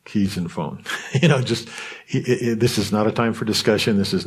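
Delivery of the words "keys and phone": a low, calm Danny-style command, lightly done. Retold or imitated. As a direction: imitate a quiet, firm father handing down a verdict. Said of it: "He has that low voice".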